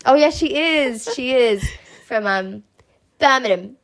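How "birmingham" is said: put-on Birmingham said "BAM-uh-num" in her Birmingham accent; roommate's Birmingham accent. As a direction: imitate a Brummie saying Birmingham. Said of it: "That's how she says it".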